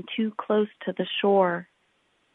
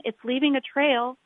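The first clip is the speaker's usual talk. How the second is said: put-on children pointing; 5 semitones higher than usual. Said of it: "said the children".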